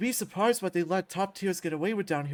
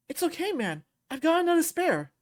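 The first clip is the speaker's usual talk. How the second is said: higher, light voice; upbeat reassurance; 8 semitones higher, 4 dB louder than usual. Acted. Friend comforting the man who broke his controller, reassuring. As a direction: reassure him in a lifted voice. Red reassures guilty Bruce.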